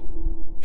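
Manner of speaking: loud, eerie clown cackle; sinister clown laugh; creepy clown giggle. Acted. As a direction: giggle menacingly like a killer clown. Clown appears staring at the window.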